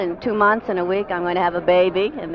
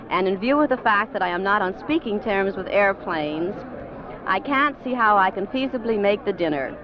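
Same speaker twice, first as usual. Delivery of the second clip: a lightly formal reading of a letter; telegram read aloud; 3 semitones higher than usual. Acted. Actress reads Brando's telegram to the critics' dinner, lightly formal. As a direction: read the wire out to the room, a touch formal.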